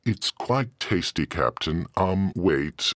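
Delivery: tasty then dying. Retold or imitated. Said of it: "he exclaimed, and I'm reading this from the transcript".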